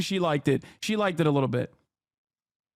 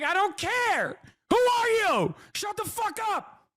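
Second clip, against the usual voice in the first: high, squeaky mocking voice, far higher than usual, slowing down on "Shut the fuck up"; mock retelling of his own TV outburst; 13 semitones higher, slower than usual. Streamer mocks his own rant at the TV guest in a high squeak. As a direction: parody yourself by squeaking the line. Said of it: "I was like".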